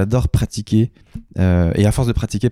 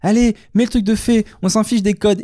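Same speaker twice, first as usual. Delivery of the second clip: mock Mag voice; 9 semitones higher than usual. Imitates Mag telling her son.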